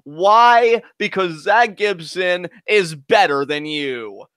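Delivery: slow, booming sales-pitch announcer; infomercial voice. Acted. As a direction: sell Gibson like a TV product pitch. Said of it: "your infomercial voice for that".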